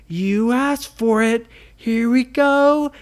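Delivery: high, loud hero shout; heroic battle cry. A narrator's reading. Ryan charging the pirates, loud heroic cry. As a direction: fire it off like a superhero.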